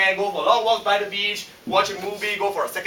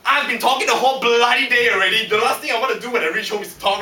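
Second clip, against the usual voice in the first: exasperated outburst; 3 semitones higher than usual. Acted. Acted outburst at wife's request.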